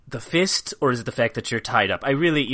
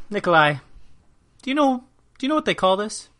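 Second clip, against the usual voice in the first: 1 mock menacing question; 9 semitones higher, 5 dB louder, faster than usual. Menacing fist question to captive.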